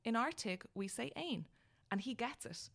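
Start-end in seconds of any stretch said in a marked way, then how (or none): 0.1-1.5 put-on higher little boy voice; child voice. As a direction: pipe up like a small boy.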